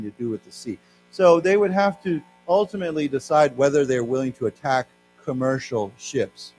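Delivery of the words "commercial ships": commercial stretched out slowly; stress on commercial. Shown as a demonstration. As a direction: lean hard on commercial. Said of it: "not military ships, but commercial ships".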